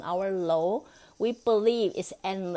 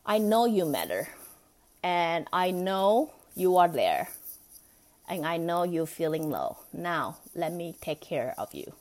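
gentle reassurance. Shown as a demonstration. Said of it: "We say".

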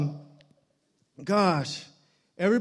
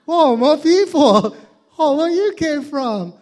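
higher, louder amazed whoa; bigger whoa; 8 semitones higher, 9 dB louder than usual. Acted. Comic topping his own amazement, louder. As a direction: top the first whoa.

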